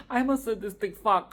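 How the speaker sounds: giggling confession; laughing at herself. Real, not acted. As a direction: say it through leftover laughter.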